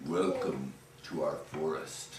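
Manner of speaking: head troll welcoming the ghost, deep and soft. Acted. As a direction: greet the ghost like a gentle giant troll. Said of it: "the head troll stepped forward and he said".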